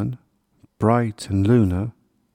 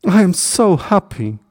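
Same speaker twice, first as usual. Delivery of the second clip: high, lightly overcome with happiness; a touch of happy sobbing, pitched up; tearful joy; 9 semitones higher, 4 dB louder than usual. A narrator's reading. Hedgehog reunited with his family, mildly tearful joy. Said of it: "sobbed the hedgehog".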